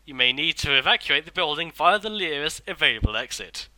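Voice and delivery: lightly voiced posh recorded man; posh announcer voice. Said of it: "a posh man saying".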